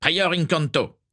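high-pitched spell cry, no real shout; nervous high exclamation. A narrator's reading. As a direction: call the incantation out high. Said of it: "cria-t-il".

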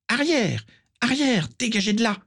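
high shouted commands, roaring at plants. A narrator's reading. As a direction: roar it out to drive them back. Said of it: "rugissait-elle".

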